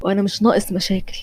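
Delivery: whispered warning so grandpa won't hear; tense whisper between clenched teeth; hushed. Acted. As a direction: drop to a whisper, keep it from the next room. جدي جنبك في الاوضه اللي جنبك.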